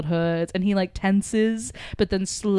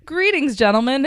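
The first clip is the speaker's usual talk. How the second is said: higher-pitched mock British greeting; British accent; 5 semitones higher, 3 dB louder than usual. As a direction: put on a playful British accent. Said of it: "in a British accent".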